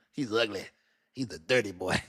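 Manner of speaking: mock friend warning. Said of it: "She was like".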